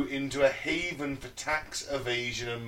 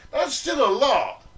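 surprised; 11 semitones higher, 7 dB louder than usual. Real, not acted. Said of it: "surprised at the figure".

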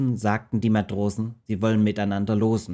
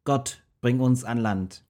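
slow prayer; 3 semitones higher than usual. Acted. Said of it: "und riefen".

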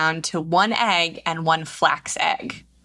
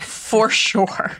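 whispered aside; 3 semitones higher than usual. Real, not acted. Cohost adds a whispered aside about eggs. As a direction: breathe it as a quick aside.

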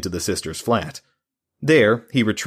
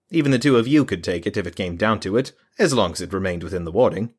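lightly voiced smug mage; a hint of a condescending mage; mage's voice. Mage explains his warding to two men, lightly condescending.

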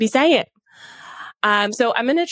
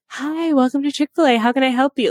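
slightly put-on, higher greeting voice; customer service voice; 4 semitones higher than usual. Shown as a demonstration. Host showing her old Chick-fil-A greeting, light customer service voice. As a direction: click into a light counter-worker greeting, pitched up. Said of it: "that customer service voice clicks on".

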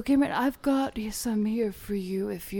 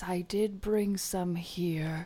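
whispering. Acted. Mystic healer whispering.

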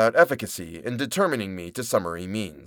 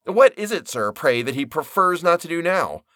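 voiced Nippers; 6 semitones higher than usual. Nippers mocks Bartleby's preference.

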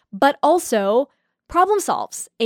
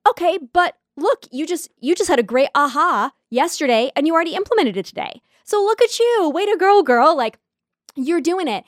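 hyped-up self-praise; 6 semitones higher than usual. Retold or imitated. She cheers herself on inside her head after a win, in an excited high cheer. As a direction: pump yourself up, way to go girl.

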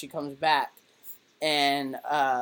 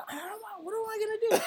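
nervous laugh; 3 dB quieter, much faster than usual. Retold or imitated. Starstruck teen retold.

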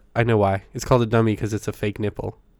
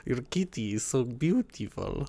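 put-on German accent; 4 dB quieter than usual. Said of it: "That was my German".

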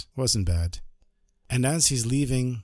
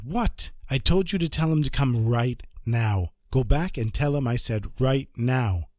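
indignant surprise; 3 semitones higher than usual. Acted. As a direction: demand it be done now. Rebbe hears the bishop stalls.

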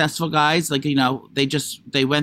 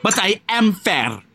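slow, higher mock Italian accent; imitated movie accent; 4 semitones higher, slower than usual. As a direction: echo a trailer's heavy accent, drawn out. Mimicking the trailer's accented line.

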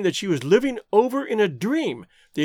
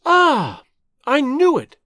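high, loud burst of vindication; exclaiming; 7 semitones higher, 5 dB louder, slower than usual. A narrator's reading. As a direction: exclaim it as a sudden confirmation. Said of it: "she exclaimed".

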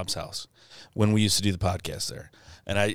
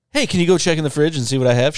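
imitating friend's request; 7 semitones higher, 7 dB louder, faster than usual. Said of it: "because of my idiot friends".

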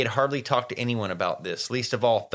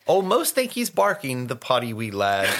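taunting rhyme. Acted. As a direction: lightly recite a mocking ditty. Recites Peeves's taunting rhyme.

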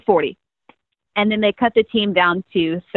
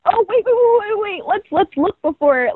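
hesitant; 11 semitones higher than usual. Retold or imitated. Friend's cautious voice, retold.

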